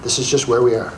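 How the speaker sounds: low, unhurried and settled; calm acceptance. Retold or imitated. To the audience, modelling calm acceptance. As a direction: let it go, accepting the moment. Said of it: "and say".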